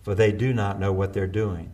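soft, low, strained prayer, short of breath; a dying man's hushed plea for forgiveness; gasping for air. A narrator's reading. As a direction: pray it with the last breath you have. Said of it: "as Jesus grasp-, gasped for air".

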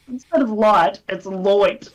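high, loud mock American accent; hammed-up Yank correcting the word "light"; imitating an American. American podcaster correcting Aussies, mock American accent. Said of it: "and he goes".

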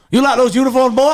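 high-pitched, badly done impression; Alex Jones. Host playing interviewer to a rapper, mock badgering. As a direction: put on a high ranting-host voice. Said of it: "That's a terrible Alex Jones".

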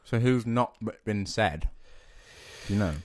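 talking round ice; ice in mouth. Real, not acted. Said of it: "I've got ice in my mouth".

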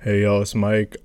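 relaxed street greeting, lightly voiced; African American accent. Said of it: "that's literally how I talk".

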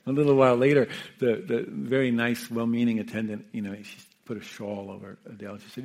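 normal talking voice

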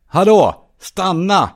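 high, loud shouts; sharp rising calls that carry; calling after someone. Acted. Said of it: "Jag ropar efter henne".

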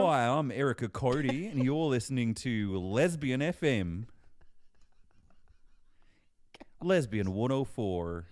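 slow radio ident in Australian accent. Shown as a demonstration. Co-host takes a turn at the ident, Australian accent. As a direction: play an Australian station announcer, drawn out. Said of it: "You do it now".

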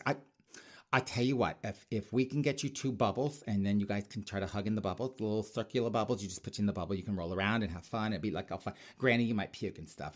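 prissy government clipboard lady; sassy bureaucrat scolding a grandma and kid; queen with a clipboard. Acted. Continues clipboard queen character.

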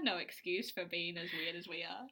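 breathy whispered aside. Real, not acted. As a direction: whisper it conspiratorially.

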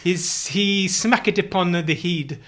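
slow, hammed-up medieval recital; renaissance fair olde speech. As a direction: spin it like a bard, slowly. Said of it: "Are you literally speaking in Old English?".

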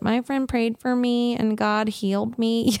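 a sheepish, slightly embarrassed "My friend prayed for me". Retold or imitated. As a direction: say it a bit shyly, half-apologising to the doctor. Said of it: "do the sheep is like".

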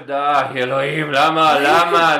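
slow, drawn-out despair; mock exasperation. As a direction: plead to the heavens. His own inner exasperation.

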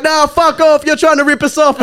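high-pitched indignant tirade; mock angry uncles. Uncles refusing to pay the driver, mock angry. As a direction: imitate relatives seeing someone off.

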